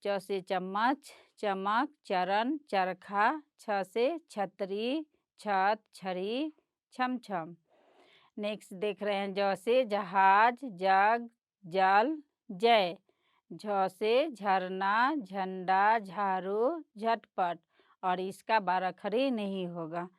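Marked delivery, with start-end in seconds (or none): 0.0-7.6 ख से खरगोश read slowly and clearly; slow reading aloud. Shown as a demonstration. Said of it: "तो इसको हम लोग पढ़ेंगे". 9.3-17.6 ख से खरगोश read slowly and clearly; slow reading aloud. Shown as a demonstration. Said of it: "तो इसको हम लोग पढ़ेंगे".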